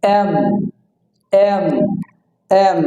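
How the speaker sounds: "এম" with lips pressed on a held m; pressed letter M. Shown as a demonstration. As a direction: press and hum the end of "এম". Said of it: "চাপ হবে".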